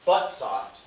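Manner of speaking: heavy first syllable, then a lighter second; trochaic attack. Shown as a demonstration. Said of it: "like, um, I guess".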